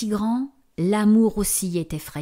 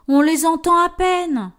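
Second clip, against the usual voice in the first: high, defensive giant voice; dim slow booming giant; 8 semitones higher, 5 dB louder than usual. Acted. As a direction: protest like a big clumsy giant. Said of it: "se défend le géant". (géant qui se défend)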